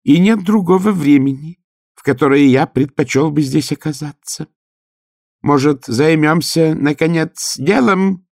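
high, chattering teeth; earnest through chattering teeth. Acted. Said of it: "стуча зубами".

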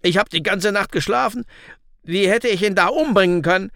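high, pleading self-defence; groaning protest. A narrator's reading. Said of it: "stöhnte dieser".

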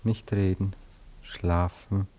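slow, soothing hypnotist voice; hypnotic lulling. Acted. Anatol hypnotising Cora, slow and soothing. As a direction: lull her to sleep, word by word.

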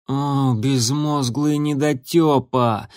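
groaning. Acted. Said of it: "простонал Крутобок".

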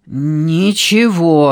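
slow words pushed through clenched teeth; through gritted teeth. Acted. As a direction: grit your teeth and drag it out. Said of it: "сквозь зубы".

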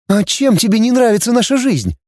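put-on a touch of girlish anger; heated girl Dana. A narrator's reading. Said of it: "запальчиво спросила девушка". (девушка запальчиво, выше голосом)

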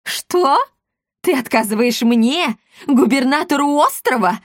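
governor's voice jumps high and loud in disbelief; outraged pitch leaping up at the refusal; astonished outrage. A narrator's reading. Offended governor shouting disbelief at the shopkeeper who refused him. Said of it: "изумился Макриди Гольф".

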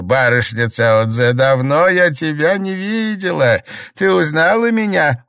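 a simple country granny giving folk wisdom; old village woman. A narrator's reading. Old Liu advising the sick mistress, earnest.

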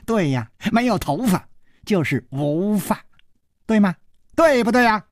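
high cackle, then teasing voice; gleeful old dwarf. A narrator's reading. Dwarf punning on his baldness, gleeful.

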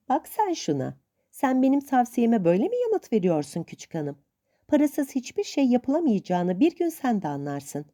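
hint of a stern old aunt. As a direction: lightly play the suspicious old aunt.

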